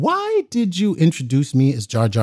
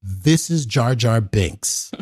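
a slow, lowered plain read; 3 semitones lower, slower than usual. Retold or imitated. George introducing the teller to Michael, slow and low. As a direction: say it slow and a bit low, matter-of-fact. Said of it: "and then he goes".

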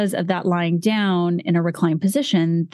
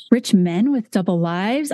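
shocked prim gasp; 3 semitones higher than usual. Pretend. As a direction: gasp like a prim lady clutching her pearls. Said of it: "I'm clutching my pearls".

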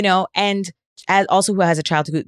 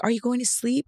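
small son; 6 semitones higher, 5 dB quieter than usual. Retold or imitated. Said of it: "He's like".

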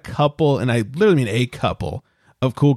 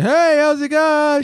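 imitating the boss; 13 semitones higher, 3 dB louder, slower than usual. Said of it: "The other male boss walks up to me and".

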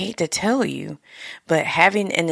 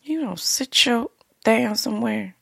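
scolding; 6 semitones higher than usual. Acted. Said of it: "grab that sucker and say".

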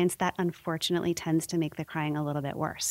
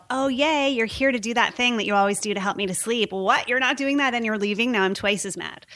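put-on baby's voice; 4 semitones higher, 3 dB louder than usual. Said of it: "they go".

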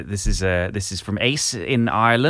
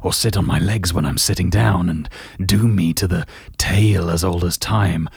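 Gerald voice; 3 dB louder than usual. Acted. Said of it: "just do Gerald again".

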